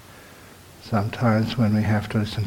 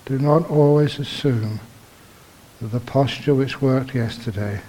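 measured meditation teacher, long pauses between phrases; guided meditation. Real, not acted. Teacher guiding meditators into awareness of the body, measured and unhurried. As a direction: guide them gently, phrase by phrase, leaving silences.

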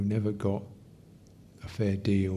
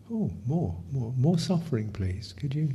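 tender invitation; 3 semitones higher than usual. Shown as a demonstration. Teacher demonstrating compassionate attitude toward suffering, tender. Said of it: "the attitude of".

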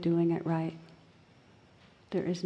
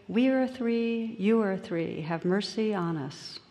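earnest fishermen's prayer; 3 semitones higher, slower than usual. Acted. Fishermen reciting their own prayer to bishop, earnest. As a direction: pray it with open-hearted earnestness. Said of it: "In pidgin English".

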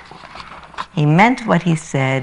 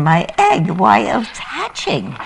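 shouted; 7 semitones higher, 4 dB louder, slower than usual. Acted. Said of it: "shouted Horton".

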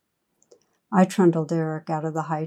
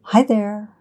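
put-on light, gleeful baby greeting pitched higher and louder; baby squealing with glee; 4 semitones higher, 5 dB louder than usual. A narrator's reading. Narrator voicing baby Eric greeting the stranger with glee. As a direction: squeal it out like a delighted toddler. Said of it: "she hears Eric squealing with glee".

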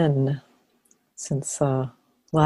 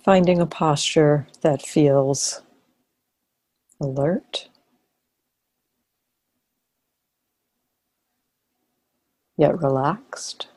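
calm guidance with long pauses; guided meditation. Real, not acted. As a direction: guide them gently into posture, leaving long silences.

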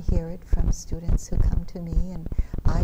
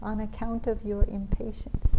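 put-on softer Indian accent repeat; 3 semitones higher, 4 dB quieter than usual. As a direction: echo the teacher lightly in an Indian accent. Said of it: "in his Indian accent".

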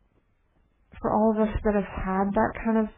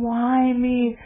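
anguished cry; 3 semitones higher, slower than usual. Retold or imitated. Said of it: "she was just crying and crying, saying".

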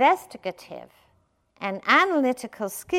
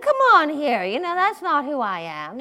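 affronted; 6 semitones higher, 7 dB louder than usual. Acted. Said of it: "you can feel a sense of affront".

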